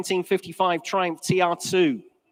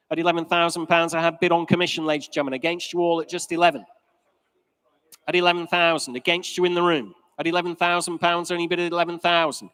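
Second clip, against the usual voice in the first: fine art auctioneer. Real, not acted. Auctioneer calling bids.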